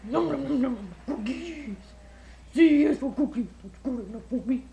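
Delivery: Cookie Monster voice. Pretend. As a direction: chomp and growl like a cookie monster. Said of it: "Cookie Monster".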